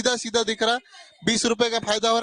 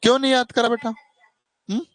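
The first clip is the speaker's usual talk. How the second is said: scolding teacher; 3 semitones higher, 3 dB louder, faster than usual. Real, not acted. Tutor scolds for skipped homework.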